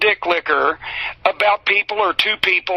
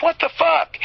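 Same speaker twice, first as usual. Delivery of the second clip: shocked outburst; 9 semitones higher than usual. Retold or imitated. Walking in on the yelling.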